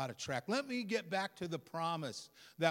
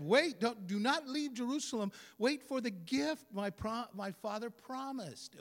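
urgent preached command; 6 semitones higher, 4 dB louder than usual. Acted. Preacher voicing Jesus' command.

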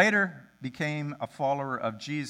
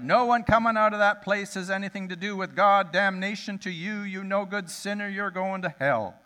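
1 shouted condemnation; 4 semitones higher than usual. Retold or imitated. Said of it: "He just looked at me and shouted".

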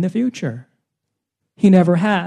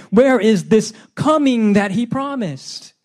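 sarcastic; 4 semitones higher, slower than usual. Acted. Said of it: "a question dripping with sarcasm".

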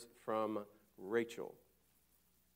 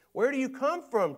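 gruff Joseph demand; 10 semitones higher, 7 dB louder than usual. Retold or imitated. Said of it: "Joseph says".

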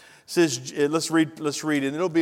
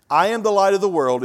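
preacher lifts the key verse, louder; proclaiming loudly; 5 semitones higher, 9 dB louder than usual. Acted.

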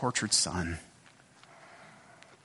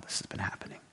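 pained father; 7 semitones lower, 4 dB quieter than usual. Retold or imitated. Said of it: "I imagine with great pain in his voice".

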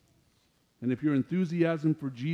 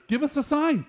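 mocking crowd demand; 9 semitones higher than usual.

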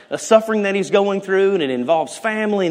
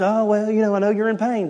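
mock platitude; 4 semitones higher, faster than usual. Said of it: "And somebody goes".

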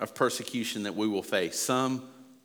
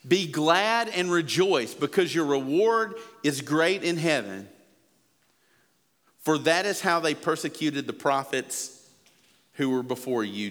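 quoting scripture; 3 semitones higher than usual. Acted. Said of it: "Jesus is still talking about it".

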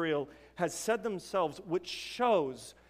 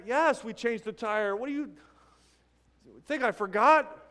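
raised, indignant insistence, a bit louder; mock angry husband; 3 semitones higher, 5 dB louder than usual. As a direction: play the confused patient getting heated. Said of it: "he's angry with his wife".

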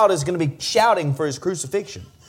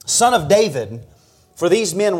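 ordinary talk, nothing marked

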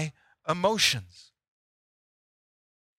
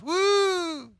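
excited woo; 12 semitones higher than usual. Acted. Love produces energy, acted cheer.

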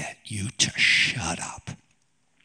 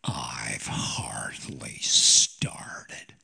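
stubborn widow; 10 semitones lower, much slower than usual. Retold or imitated. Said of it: "she's going".

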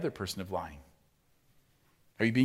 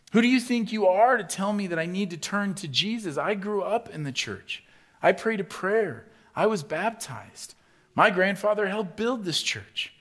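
loud, high, offended protest; a mock-indignant shout of who do you think you are; indignant churchgoer; 9 semitones higher, 7 dB louder than usual. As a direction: puff up like a proud old member of the church. Mocking a defensive proud churchgoer.

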